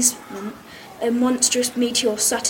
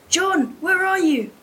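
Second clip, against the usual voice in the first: high, slow, drawn-out call; 6 semitones higher than usual. A narrator's reading. Pupil voices hero searching rubble for John, calling out. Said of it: "I shouted".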